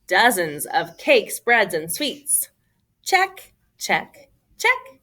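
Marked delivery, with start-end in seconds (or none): 3.0-5.0 singsong checklist; playful checks. A narrator's reading. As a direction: tick them off in a singsong. Ticking off list.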